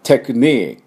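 English テクニック, punch the ニ, end on a voiceless k; stress on NI. Shown as a demonstration. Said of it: "こういう音です".

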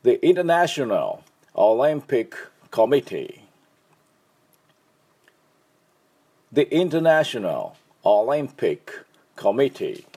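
The International Olympic Committee said slowly, word by word; slow model phrase. Shown as a demonstration. Teacher modelling the full name slowly for repetition. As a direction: spell out the name slowly for learners. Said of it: "では、私の後でどうぞ。".

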